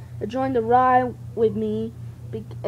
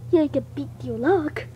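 ordinary talk

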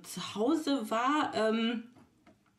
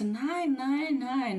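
firm refusal; 5 semitones higher, much slower than usual. Retold or imitated. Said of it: "Ich so".

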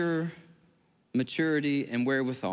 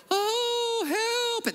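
very high mock wail of a pretend victim; hammed-up fake mourner crying help. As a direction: assassin faking a bystander's cry. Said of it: "hide their dagger and go".

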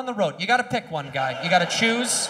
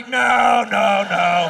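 put-on scared kid shout; 6 dB louder, much slower than usual. Kid on the seesaw yelling in panic. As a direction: yell like a terrified kid.

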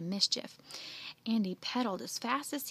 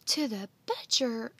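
louder, appalled echo question; shocked; 6 dB louder than usual. Acted. Andy hearing where the pig may go, shocked. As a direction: repeat it in disbelief. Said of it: "Andy's eyes bulged".

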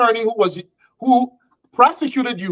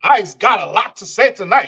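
mock Ebonics; 2 semitones lower than usual. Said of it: "to Ebonics".

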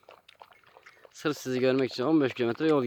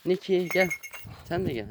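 raised, higher call to the pet; 6 semitones higher than usual. Real, not acted. Owner calling her cat Niki over, raised call.

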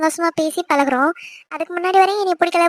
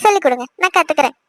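mock innocence. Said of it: "நடிக்காதடி".

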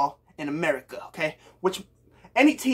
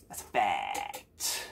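much lower, slow mock deep voice; deep fact; 10 dB quieter, much slower than usual. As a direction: drop it low and slow for effect.

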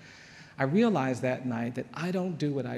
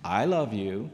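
grudging imitation of a boy's forced affection, pitched up on "love"; insincere; 3 semitones lower, 4 dB louder, slower than usual. Boy obeying his mother to another child, insincere. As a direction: say "love" as if made to. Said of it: "as insincerely as I possibly could".

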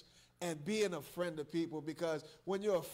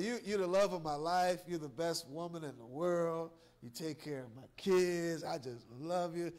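tender mock praise; 4 semitones lower than usual. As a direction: coo it like a loving husband. Acted tender spouse praise.

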